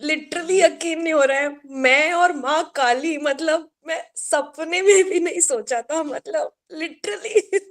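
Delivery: overwhelmed, fast and tearful, laughing through tears; real joyful crying, words tumbling out; can't believe it, crying with happiness. Real, not acted. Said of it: "ये खुशी के आंसू है".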